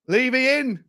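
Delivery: delighted chant of Levy in; gleeful announcement. Real, not acted. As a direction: savour it like a headline. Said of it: "repeated higher".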